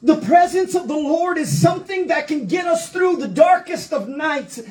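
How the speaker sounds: rising preacher's fervor, half-shouted; preaching. Acted. Pastor to congregation, fervent preaching. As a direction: preach it out to the congregation with building fire. Preacher builds on the Lord's presence.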